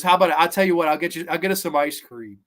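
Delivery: bright offer. Retold or imitated. Jane voiced, bright offer.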